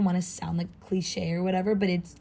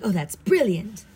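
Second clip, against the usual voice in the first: British brilliant; 3 dB louder than usual. Shown as a demonstration. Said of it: "you know, like".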